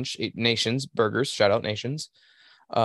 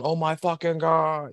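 hammed-up overdramatic moan, slowed and higher; mock dramatic wail; 6 semitones higher, slower than usual. Coworker faking an injury after a trip, hammed-up moaning. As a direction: ham it up like a faker rolling on the ground. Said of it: "This motherfucker will fucking".

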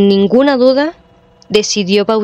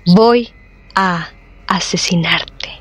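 a sinister threat, dark and slow; creepy butler. Acted. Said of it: "una voz lúgubre".

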